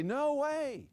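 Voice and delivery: normal talking voice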